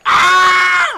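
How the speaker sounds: piercing high, loud scream; mimicked woman's shriek. Woman in the background of a match, shrieking. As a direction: shriek at full volume. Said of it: "woman shrieks loud".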